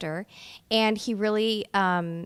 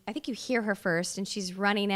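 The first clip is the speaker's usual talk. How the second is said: ordinary talk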